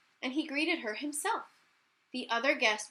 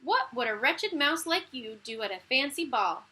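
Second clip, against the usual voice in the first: scornful; 5 dB louder than usual. Acted. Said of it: "cried the stepsisters".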